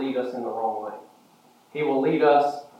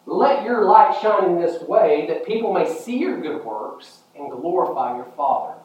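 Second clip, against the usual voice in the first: scripture proclamation; 5 semitones higher, 3 dB louder than usual. Acted. Quotes scripture to congregation.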